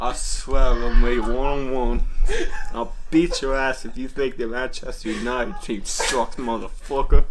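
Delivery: mock Scottish. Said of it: "it's perfect".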